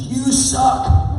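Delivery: sudden high yell at the stage; retold scream. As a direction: shout it out like an angry heckler. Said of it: "And this one guy screams".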